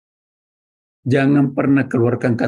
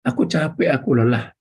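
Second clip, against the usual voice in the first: whiny complaining; 3 semitones higher than usual. Retold or imitated. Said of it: "mulut yang suka berteriak".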